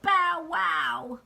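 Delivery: high, loud puppy bark; Clifford. Acted. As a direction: bark out like a dog. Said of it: "Clifford says".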